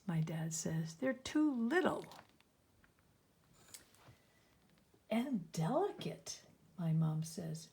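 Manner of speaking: expressive reading, lifted dialogue and dropped "says" parts; story read-aloud. A narrator's reading. Parents object to papillons, read aloud to children. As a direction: let the quoted lines stand out gently.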